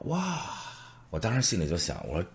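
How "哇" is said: delighted wow. Real, not acted. Friend offers two thousand yuan.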